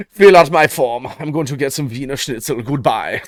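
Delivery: lightly put-on German accent, registry clerk; hammed-up German accent, breezy and quick; mock German accent. German accent of someone re-registering their gender every morning. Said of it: "I can't do a German accent".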